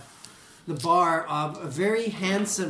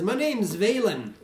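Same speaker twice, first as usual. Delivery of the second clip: dwarf voice; 5 semitones higher, 3 dB louder than usual. Acted. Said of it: "the little dwarf says".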